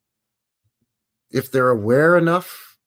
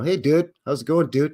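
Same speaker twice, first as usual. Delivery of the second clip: surfer dude; 4 semitones higher than usual. Retold or imitated. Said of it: "surfer, Southern California".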